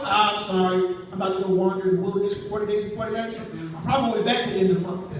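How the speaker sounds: Jesus hurrying to turn down a date; lightly voiced Jesus. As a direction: rattle off the excuse quickly.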